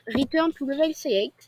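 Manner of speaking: English menu words in a real French accent. Real, not acted. YouTuber reading a game button to viewers, French-accented English. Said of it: "Merci pour mon accent anglais".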